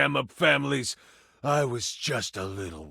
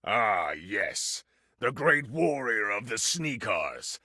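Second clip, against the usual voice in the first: smirking villain. Acted. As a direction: sneer it at the returning hero. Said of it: "He smirks and says to you".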